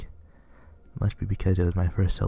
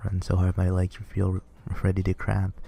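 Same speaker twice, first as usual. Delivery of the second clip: winded after a long run; out of breath. Acted. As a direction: gasp the words out, still panting. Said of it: "I'm completely out of breath".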